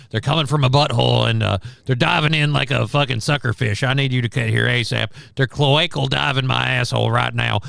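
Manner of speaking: a light Alex Jones twang, loud and pushy. Pretend. Cohost asked for twang, host does a light Alex Jones caller. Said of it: "that was a bit of an Alex Jones twang".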